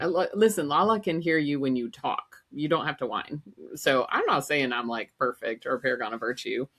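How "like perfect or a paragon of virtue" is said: ordinary talk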